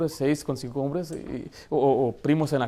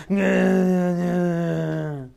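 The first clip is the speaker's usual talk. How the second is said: mock crying; 2 semitones higher, much slower than usual. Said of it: "Así lloran las cholas".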